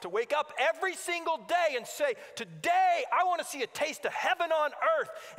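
rousing sermon with punched key words; rally the congregation with conviction; impassioned preaching. Real, not acted. Preacher urging believers to fight the good fight, impassioned preaching.

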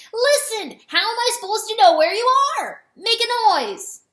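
loud, high exasperated yell; shouted. A narrator's reading. Rooster shouting to find the lost hen, shouted. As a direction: shout across a distance, voice pitched high. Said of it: "Chanticleer shouted from a different place".

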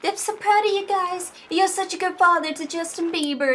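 imagined proud wife. Pretend. Wife praising father of a pop singer, proud gushing. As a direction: gush softly as the proud wife. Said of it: "She'll be like".

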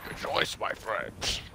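whispered. Retold or imitated. Quoting game character line.

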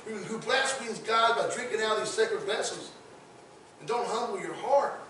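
lightly voiced warning to Belshazzar; stern Daniel rebuke. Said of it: "I can see Daniel saying".

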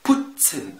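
بوتسن with a clear TS in the middle; TS mid-word. Shown as a demonstration. Teacher showing Z in mid-word, TS inside بوتسن. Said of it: "وتت في الوسط".

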